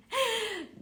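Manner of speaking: high laugh through tears; a laugh breaking into tears; high tearful laugh over her daughter. Real, not acted. Laughing while telling of daughter.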